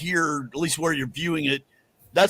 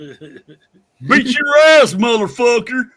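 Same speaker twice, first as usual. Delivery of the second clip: repeating the character line; 7 semitones higher, 10 dB louder, much slower than usual. Retold or imitated. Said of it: "another voice I might wanna do".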